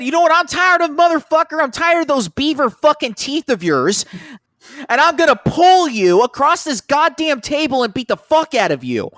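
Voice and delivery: high, loud furious tirade, imitating Jim; mock rage, shouted high and loud; furious threat. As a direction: yell it like you'll cross the table and beat him. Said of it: "Just like I said".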